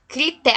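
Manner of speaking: "crité-" said as a word fragment, stopping after té; "crité-" as two syllables, cri-té, without the ending; word cut at syllable. Shown as a demonstration. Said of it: "até o T".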